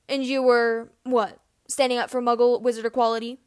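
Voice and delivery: a loud, icy challenge; cold challenge. Acted. James sneers back at Snape, cold and loud. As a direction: throw the question back hard, cold. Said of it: "James asks coldly".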